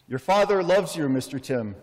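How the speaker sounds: gently imitating the doorman's Spanish accent. Doorman assures Tim his father loves him, light Spanish accent. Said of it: "he spoke with a Spanish accent".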